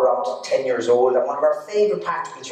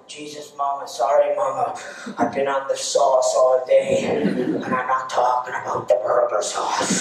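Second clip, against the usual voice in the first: put-on drunk; 3 semitones lower than usual. Drunk Alan apologising to Mama at the counter, mildly drunk. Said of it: "when he gets drunk".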